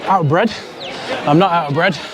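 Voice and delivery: panting between words after exercise; out of breath. Real, not acted. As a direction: speak breathless, gasping for air. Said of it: "I am out of breath".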